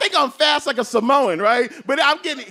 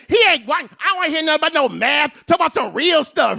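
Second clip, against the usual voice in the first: loud, higher heckling woman; heckler yell; 4 semitones higher, 3 dB louder than usual. Retold or imitated. Heckling woman calls out to the comic, loud and higher. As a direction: heckle from the back, raised voice.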